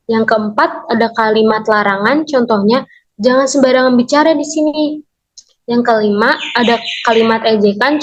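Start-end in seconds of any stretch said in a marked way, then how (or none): 3.2-5.0 "Jangan sembarangan" as a slightly raised prohibition; command intonation. Shown as a demonstration. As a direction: lift the warning toward "di sini". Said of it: "memiliki intonasi untuk memerintah sehingga memiliki nada suara yang naik". (intonasi larangan dengan nada agak naik)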